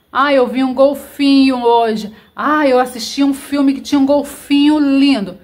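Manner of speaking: high, loud, chatty exclamation; imitating how people casually blurt it out; mock excited remark; everyday excited exclamation. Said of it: "A gente até fala, né?".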